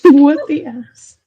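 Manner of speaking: slow, loud, laughing repeat; laughing echo. Retold or imitated. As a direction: echo the phrase through laughter. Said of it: "You and your things".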